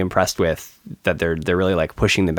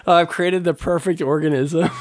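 mock pride; 7 semitones higher than usual. Real, not acted. Proud mock mad scientist.

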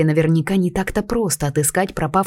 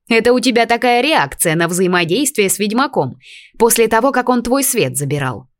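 pixie voice; 6 semitones higher, 4 dB louder than usual. A narrator's reading. Fairy teases heroine.

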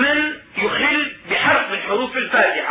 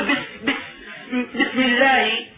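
mock stutter; slower than usual. Shown as a demonstration. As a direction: stammer on بس before getting it out. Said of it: "يكرر السين".

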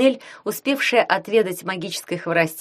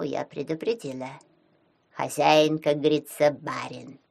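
pike voice; 4 semitones lower, slower than usual. Acted. Pike character voice.

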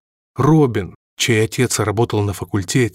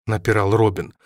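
plain reading voice

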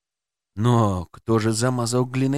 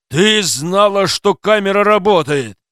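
louder, raised accusing yell; shouting; 5 semitones higher, 5 dB louder than usual. A narrator's reading. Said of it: "кричал Ворохтин".

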